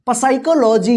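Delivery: पसाइकोलॉजी with the silent P wrongly sounded as "pa"; mispronounced with P. Shown as a demonstration. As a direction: start पसाइकोलॉजी with an audible "pa" before "sai". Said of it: "पसाइकोलॉजी नहीं होगा".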